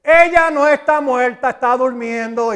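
firm declaration. Retold or imitated. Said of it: "Y Jesús dice".

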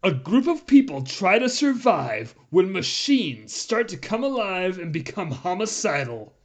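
dramatic trailer voiceover; slow movie trailer narration; announcer voice. Shown as a demonstration. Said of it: "Listen, here, here it goes. Ready?".

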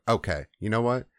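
retold exasperated ordering about; fed up. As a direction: lay down the plan with thinning patience. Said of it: "the Lord's just fed up".

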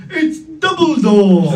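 slow, loud blocked-nose exclamation; broken nose voice. Retold or imitated. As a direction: shout it through a squashed nose. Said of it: "At the end he goes".

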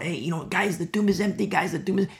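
lightly acted eager announcement to friends; excited report. Women report the empty tomb.

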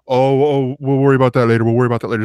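breezy brush-off; dismissive. Retold or imitated. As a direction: wave it away lightly. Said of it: "Andre just pushing it off".

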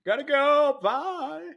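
high, drawn-out mock yawn of an apology; lightly lampoon a drowsy streamer bailing out; mock sleepy host. Friend mocking the tired host ending the stream, high and sleepy.

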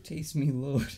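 put-on jokey British accent; playful British impersonation. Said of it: "I can do the accent".

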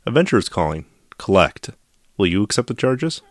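collect call operator voice; payphone call. Pretend. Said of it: "One eight hundred C A L A T T".

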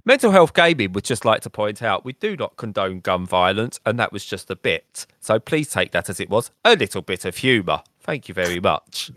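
tongue-in-cheek public notice on behalf of the show; disclaimer voice. Pretend. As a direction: read it like a mock official disclaimer. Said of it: "you're probably the best disclaimer voice".

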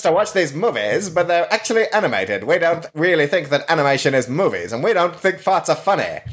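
high, chirpy mock Canadian cartoon voice; squeaky cartoon Canadian mocking the reviewer; South Park Canadian. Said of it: "South Park Canadian takes it for me".

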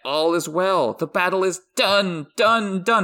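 lilting, dancing singsong; singsong drunk voice. Retold or imitated. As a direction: sing it out like a happy drunk. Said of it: "He's dancing and practically singing his dialogue".

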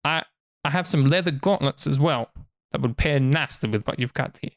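lightly voiced merchant, coaxing sales pitch. Merchant offering a human fine clothes, lightly voiced pitch. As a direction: coax them like a market trader.

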